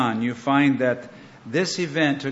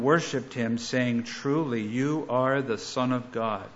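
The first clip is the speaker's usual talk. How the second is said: measured, solemn Bible reading; scripture reading. Acted. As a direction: read the passage with reverent weight. Scripture reading before sermon.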